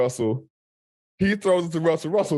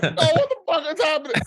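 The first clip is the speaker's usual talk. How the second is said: high, fast mock panic; stunned disbelief; 11 semitones higher, faster than usual. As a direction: blurt it out, thrown by the chaos. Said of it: "it's like".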